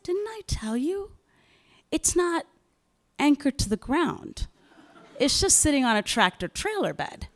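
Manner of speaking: high, laughing through the words; laughing retell. Retold or imitated. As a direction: laugh as you pass on his news. Retells husband's careless news.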